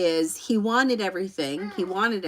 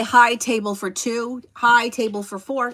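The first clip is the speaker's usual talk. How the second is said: slow, louder mock request to a host; restaurant guest greeting; 3 semitones higher, 6 dB louder, slower than usual. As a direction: imitate someone confidently asking for a table. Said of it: "I don't say".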